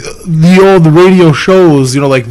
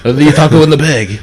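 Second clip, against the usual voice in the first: put-on German accent. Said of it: "I don't know how to do German accent".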